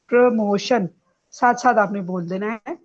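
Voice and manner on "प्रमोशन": प्रमोशन as pruh-MO-shun; short weak vowel in प्र of प्रमोशन; correct pronunciation. Shown as a demonstration. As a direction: sound out प्रमोशन for the class. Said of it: "it is".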